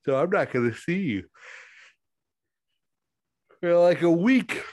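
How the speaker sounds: talking through a yawn; words stretched by a yawn. Real, not acted. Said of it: "In between yawns".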